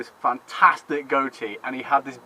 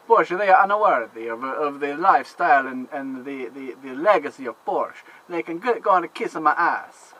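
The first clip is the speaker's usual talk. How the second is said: put-on Italian accent. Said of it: "I'm gonna do it in the Italian accent".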